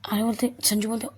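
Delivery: ordinary delivery, nothing marked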